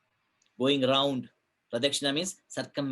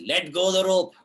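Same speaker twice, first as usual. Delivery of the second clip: divine voice; 4 semitones higher, 6 dB louder than usual. Retold or imitated. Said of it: "he hears a voice".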